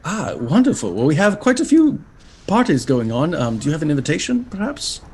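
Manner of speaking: flustered imp professor. Acted. Imp professor introducing himself to travellers, flustered and fussy. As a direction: trip over the words like a nervous bureaucrat. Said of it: "devilish imp".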